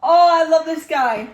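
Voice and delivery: high, loud laughing reaction; gushing through real laughter; real amusement. Real, not acted. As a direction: crack up while talking. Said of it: "that is so funny".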